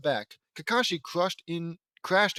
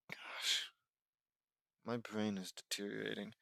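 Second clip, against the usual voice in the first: whisper; 5 semitones lower, 13 dB quieter than usual. Real, not acted. Whispered aside.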